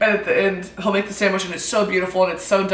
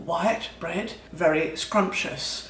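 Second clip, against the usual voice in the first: mock British accent. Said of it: "talk like Gordon Ramsay".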